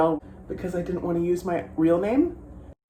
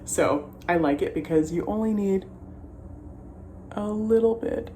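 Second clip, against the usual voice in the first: mouth propped open; 3 semitones higher than usual. Real, not acted. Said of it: "Mascara face".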